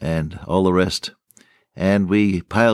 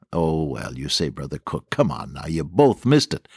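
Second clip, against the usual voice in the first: dismissive objection; 6 semitones lower than usual. Retold or imitated. Listeners answering Brother Cook's riddle, offhand dismissal. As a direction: wave the question away as an imagined listener.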